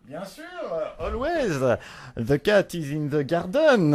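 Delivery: slow English with a heavy French accent; the crappy French accent, laid on on purpose; thick French accent. Shown as a demonstration. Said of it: "more accent, more accent".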